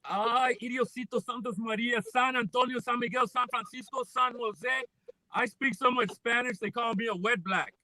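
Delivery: light Mexican accent, rattling off Spanish names; jokey Mexican-accent patter. Shown as a demonstration. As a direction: put on a slight Mexican accent. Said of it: "I was good with the Mexican accent".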